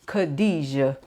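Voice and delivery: Khadijah with a relished, drawn-out throaty kha; flavored Khadijah. Shown as a demonstration. Naming a favorite card for viewers, relishing the name. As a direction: savor Khadijah, leaning into the first syllable. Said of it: "I say it like that every time".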